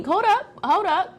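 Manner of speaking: high-pitched, acted-out objection; acted interjection. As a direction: cut in to correct someone, voice jumping up. Acting out cutting off a doubter.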